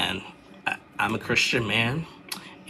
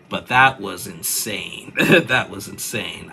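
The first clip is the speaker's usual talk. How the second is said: amazed; 7 dB louder, slower than usual. Real, not acted.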